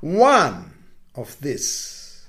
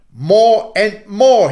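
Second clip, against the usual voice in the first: put-on high, loud child crying for more; a greedy boy shouting for more; excited cry; 6 semitones higher, 10 dB louder, slower than usual. Little boy crying to the moon for more, high and loud. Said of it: "he cried".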